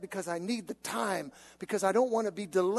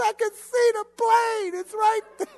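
high, loud desperate pleading; frantic plea; 12 semitones higher, 8 dB louder than usual. Retold or imitated. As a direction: beg the gate agent, voice cracking up. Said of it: "I said".

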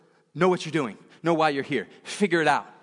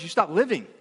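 ordinary talk

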